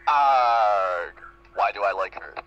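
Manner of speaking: loud frustrated groan of a cry; frustrated yell. Acted. Trixie yelling alone in her room, exasperated shout. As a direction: blurt it out in exasperation.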